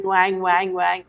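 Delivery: light mocking "wang, wang, wang" sounds; mock twang. Mocking star kids' imported accent to the host, light twang mimicry. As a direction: toss off a lazy imitation of their twang. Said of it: "in a twang".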